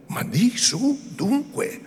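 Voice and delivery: a mother pushing her daughter to speak; urgent mother. A narrator's reading. (madre incalzante, voce molto più acuta)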